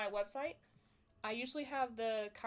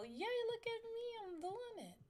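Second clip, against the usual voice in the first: excited; 12 semitones higher than usual. Real, not acted. Excited after fixing stream.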